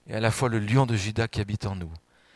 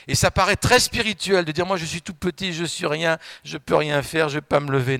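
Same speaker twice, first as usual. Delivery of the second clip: mock false humility; 4 semitones higher, 5 dB louder than usual.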